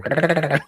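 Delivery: high rolled cartoonish trill; high-pitched purr. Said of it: "like a high pitch".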